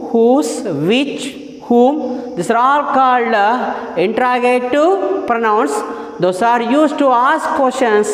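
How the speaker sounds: very slow, word by word definition; slow dictation. Shown as a demonstration. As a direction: dictate it slowly so students can write.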